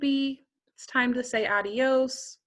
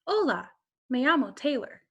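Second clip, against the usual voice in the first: a hint of a pop star introducing herself; barely changed pop-star voice; pop-star impression. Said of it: "how these celebrities would say it".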